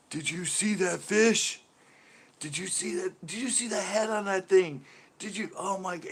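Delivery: high-pitched, drawn-out disbelief; incredulous imitation. Pro turning to angler about lost fish, incredulous. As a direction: imitate someone who can't get over it.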